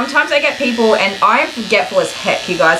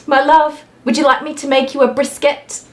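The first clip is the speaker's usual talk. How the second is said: sweet, high mock husband voice, much higher; imitating husband; 6 semitones higher than usual. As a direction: play the doting husband offering dinner. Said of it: "he goes".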